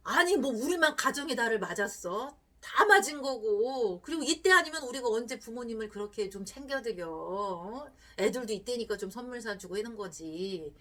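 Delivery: lightly voiced husband arguing back; dismissive husband. Husband brushing off his wife's money worries, mildly dismissive. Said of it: "보통 남편들은 어떻게 얘기할까요?".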